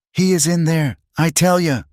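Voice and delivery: put-on sloppy, drunken slur; drunk slurring. A narrator's reading. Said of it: "a slurred voice said".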